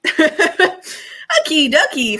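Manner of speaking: high, loud, very slow sing-song; cheerful laughing sign-off to the topic; playful laugh. Real, not acted. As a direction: stretch it out with a giggle. Playful transition while laughing.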